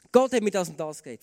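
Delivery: laut und bestimmt, keine Widerrede zulassen; autoritär behauptet. Shown as a demonstration. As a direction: wie ein Leiter, der das letzte Wort hat. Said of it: "Dann tönt das ganz anders". (laut und autoritär, als Befehl von oben)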